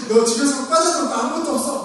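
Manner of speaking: high-pitched parental warning; mock threatening. Parent warning a child still in bed, mock threat. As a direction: act out scolding a lazy child. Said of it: "협박하고".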